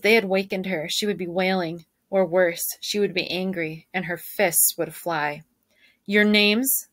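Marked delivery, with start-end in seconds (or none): 6.1-6.9 barked question. Acted. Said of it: "the officer barked".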